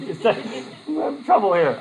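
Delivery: slow, laughing through the words; real laugh while talking. Real, not acted. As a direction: chuckle at your own predicament. Laughing at own story.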